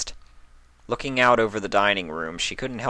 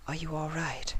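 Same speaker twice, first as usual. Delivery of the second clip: much softer, high and tender; softly; 9 semitones higher, 12 dB quieter than usual. A narrator's reading. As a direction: ask gently, almost breathing it. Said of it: "she asked softly".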